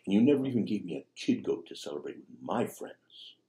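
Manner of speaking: mock-angry elder son complaining to his father; bitter son. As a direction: pile up the complaints. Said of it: "He says".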